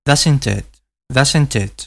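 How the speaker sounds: American "doesn't it" with an E-like vowel in "it"; an American version of "doesn't it", "it" near "et"; American accent. Shown as a demonstration. Teacher contrasts the American pronunciation for learners. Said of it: "con una especie de E".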